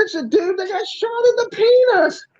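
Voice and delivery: an astonished "no way, it's him"; surprised recognition. Retold or imitated. Recognizing the same guy.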